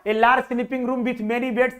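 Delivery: reads the question out word by word, very slow; slow reading aloud. Shown as a demonstration. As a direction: drag each English word out for the class. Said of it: "थोड़ा सा मैंने पढ़ लिया". (प्रश्न को बहुत धीरे-धीरे पढ़कर सुनाना)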